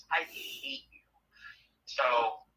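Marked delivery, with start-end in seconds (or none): 0.1-1.0 mock whisper. Quoted caller in phone story.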